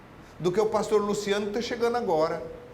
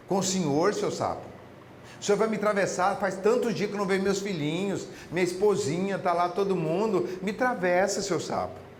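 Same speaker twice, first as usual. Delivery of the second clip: pleading scorpion. Acted. Scorpion begs frog in fable.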